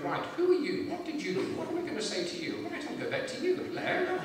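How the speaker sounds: high-pitched regal small talk to herself; the Queen. Acted. Monarch shaking hands down a line, high distracted voice. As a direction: put on a high voice, distractedly working out who's who. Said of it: "it's the Queen shaking your hand".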